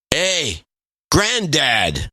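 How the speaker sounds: lightly voiced phone scammer hailing grandpa; a hint of the scammer's voice; scammer impression. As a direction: imitate a con man's drawn greeting. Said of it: "The guy had a big, deep, gravelly voice".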